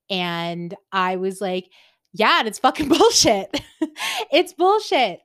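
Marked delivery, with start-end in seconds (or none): 2.1-5.2 high, loud, laughing exasperation; retold reply, belted out through laughter; laughing outburst. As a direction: burst out in comic protest. Retelling own blunt, laughing reply.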